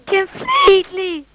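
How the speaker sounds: put-on Indian accent, high and drawn out; hammed-up Indian accent. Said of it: "a little bit Indianish".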